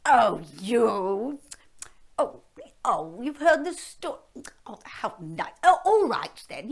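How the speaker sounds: hammed-up hungry dragon. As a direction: savour them like a snack. Flattered dragon.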